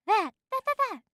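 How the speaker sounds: high, flustered stammer; stammering woman. A narrator's reading. Woman gropes for words with the bee, flustered.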